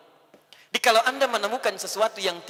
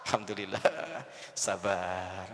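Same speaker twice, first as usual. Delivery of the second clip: calm wife; 13 semitones lower, 10 dB quieter, slower than usual. Acted. Wife calmly accepts angry husband.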